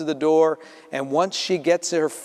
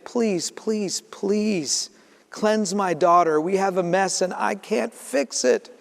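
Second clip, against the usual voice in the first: begging; 3 semitones higher, slower than usual. Acted. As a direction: beg him, please. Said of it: "she begs him".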